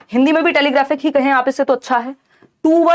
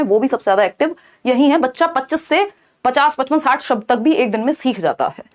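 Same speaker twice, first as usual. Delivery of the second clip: ordinary talk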